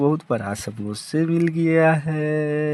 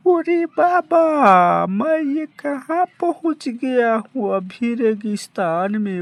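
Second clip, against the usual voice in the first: panicked cry; 9 semitones higher, 4 dB louder than usual. Acted. Lost in a desert, panicking.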